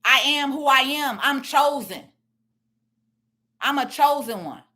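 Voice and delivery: ordinary talk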